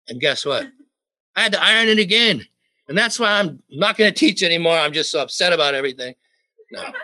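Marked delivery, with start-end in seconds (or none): 1.3-6.1 hammed-up indignant rant, higher and louder; tongue-in-cheek fuming; mock outrage. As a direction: play at being furious over ironing. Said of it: "I'm still mad about that".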